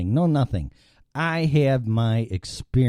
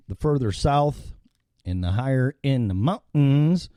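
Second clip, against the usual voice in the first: light Colorado accent on "mountains". Shown as a demonstration. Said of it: "that's a Colorado accent".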